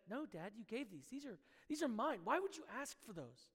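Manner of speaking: little daughter's mildly upset protest, retold; mildly offended. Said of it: "She was a little offended, a little upset".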